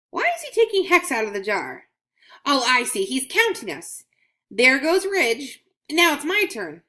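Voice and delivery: waiting for her turn to be counted; eager coin Scratch. Acted. Coin voiced in children's story.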